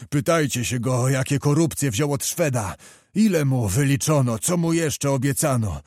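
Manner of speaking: mild mock fury, cursing the traitor; a hint of an old nobleman's rage; old nobleman cursing the prince as Judas; outburst. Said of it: "wybuchnął".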